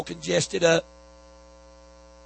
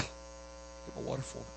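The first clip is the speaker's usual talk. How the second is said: whispered aside; 3 semitones lower, 20 dB quieter than usual. Real, not acted. Quiet aside to helper.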